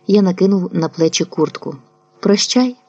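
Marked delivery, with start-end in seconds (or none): 2.2-2.8 whispered goodbye. Acted. The narrator whispers goodbye to the boy Semenko.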